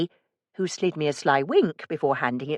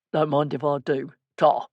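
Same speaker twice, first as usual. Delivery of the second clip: put-on East End accent. A narrator's reading. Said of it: "low and gruff, containing a twang of the East End".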